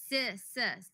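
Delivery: s, s, s as a crisp hiss; s, s, s, sharp hissing s. Shown as a demonstration. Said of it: "it's only s".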